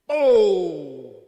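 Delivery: pô gritado bem alto, de surpresa; espanto gritado. Retold or imitated. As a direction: grite o susto de repente. Reação ao ouvir a música. (no carro, ouvindo a música, grita pô de espanto)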